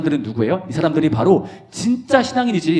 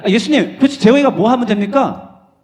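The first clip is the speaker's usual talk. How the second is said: disciples asking; 8 semitones higher, 6 dB louder than usual. Acted. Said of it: "제자들이 물어봤어".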